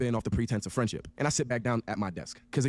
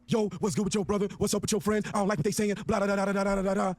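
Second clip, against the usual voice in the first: higher-pitched imitation of agitated rambling; mildly hammed-up agitation; mock bugging out; 6 semitones higher than usual. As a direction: mimic someone freaking out, running into nonsense syllables. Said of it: "starts bugging the fuck out".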